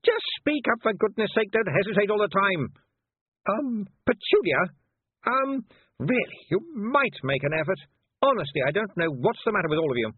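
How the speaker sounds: put-on high, hectoring head-girl voice; imperious, high-pitched scolding; bossy young witch, exasperated. A narrator's reading.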